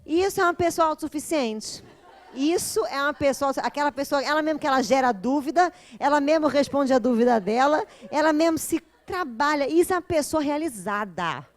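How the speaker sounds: praising Ada's self-answered question, laughing loudly; delighted laughing praise. Real, not acted. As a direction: cheer her on through laughter. Delighted reaction to viewer.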